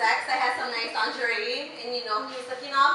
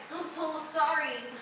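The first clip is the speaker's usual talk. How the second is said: sheepish; 6 dB quieter than usual. Retold or imitated. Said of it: "he's like".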